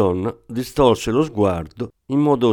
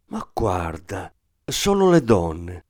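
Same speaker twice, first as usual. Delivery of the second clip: mocking echo; 3 semitones lower, slower than usual. Thief echoes her mockingly.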